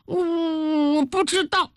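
put-on high, wavering little-boy voice with a drawn-out start; hesitate, then plead ignorance; scared child. A narrator's reading. Boy questioned by the queen, high nervous hesitation.

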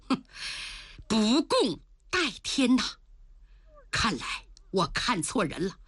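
put-on indignant young woman, breaking into tears; lady spurning the timid general in tears; scornful rebuke. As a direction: scold him, then despair.

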